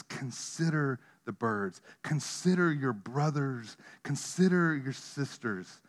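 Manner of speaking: softly pleading refrain; soft slow refrain. Real, not acted. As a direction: ease into it gently, sincere.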